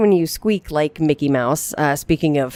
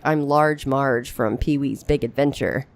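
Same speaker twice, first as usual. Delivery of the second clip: Large Marge voice. Shown as a demonstration. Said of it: "I was like".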